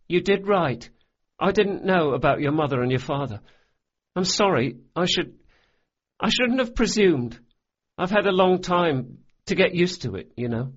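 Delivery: put-on high boyish apology; boy's voice. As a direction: play a small boy saying sorry, quick and earnest. Locke speaks, boy character voice.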